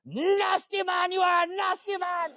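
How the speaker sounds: very high, drawn-out Jamaican scolding; mean Jamaican lady. Retold or imitated. Mean nurse storming in at the patient, high scolding Jamaican accent. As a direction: imitate an outraged Jamaican woman, stretching the words out slowly. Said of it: "that mean Jamaican lady comes back in".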